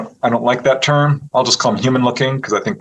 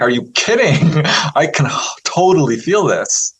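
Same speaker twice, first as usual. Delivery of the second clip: higher, lightly acted amazement; amazed reply; 4 semitones higher than usual. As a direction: retell your own thrilled disbelief. Retold amazed reply to healer.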